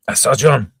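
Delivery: high, loud call for help; urgent cry. A narrator's reading. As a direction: cry out for a surgeon. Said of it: "cried Monsieur de Treville".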